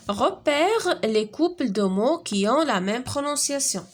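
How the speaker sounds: drawn-out classroom read; slow instruction reading. Shown as a demonstration. Teacher reading the exercise instruction to the class, slow. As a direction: spell the task out slowly.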